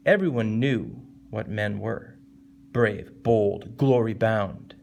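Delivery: slow line, "knew" held, then "Brave, bold" each set apart; emphatic verse reading. Shown as a demonstration. Teacher reading the poem for emphasis, slow stressed recitation. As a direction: land firmly on "knew". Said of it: "and so it has emphasis".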